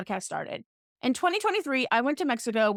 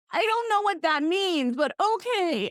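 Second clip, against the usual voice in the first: bewildered retort; 8 semitones higher than usual. Retold or imitated. Retold reply to energy reader.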